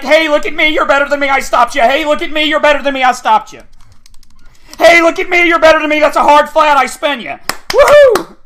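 high, loud taunting imitation; sarcastic impression of a show-off; mocking gloating opponent. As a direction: mimic a bragging rival, ending in a whoop. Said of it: "It's like".

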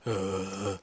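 put-on low groan like an old man. Gamer shows how he moves instead of sprinting, old-man groan. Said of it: "like an old man".

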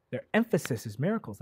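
normal talking voice

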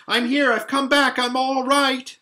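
high, loud relieved calling; young girl shouting to her siblings. A narrator's reading. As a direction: call out that you're back safe. Lucy calling back, relieved.

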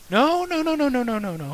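high loud frantic no's; panicked shouting. Acted. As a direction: shout no over and over.

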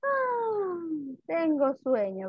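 acted drowsiness, hushed; sleepy. Shown as a demonstration. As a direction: yawn it out, drowsy. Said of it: "da un bostezo".

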